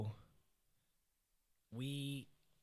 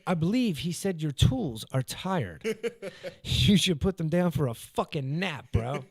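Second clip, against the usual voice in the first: laughing explanation; 6 semitones higher, 9 dB louder than usual. Retold or imitated. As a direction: explain it while cracking up. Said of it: "And I said".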